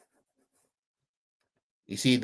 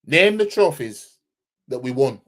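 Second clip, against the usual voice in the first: louder, insistent challenge; demanding; 6 semitones higher, 6 dB louder than usual. Real, not acted. Streamer demands rival fans name their trophies, loud. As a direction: challenge them to answer.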